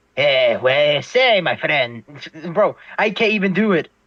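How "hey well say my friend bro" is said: failed, fumbled put-on Spanish accent. Showing accents the speaker says they can't do: attempted Hispanic accent. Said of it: "If I if I do a freaking Hispanic accent".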